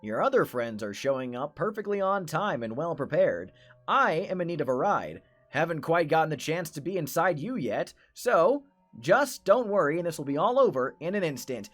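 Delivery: smooth, polite menace; courteous creep about to pounce; sinister shopkeeper. Acted.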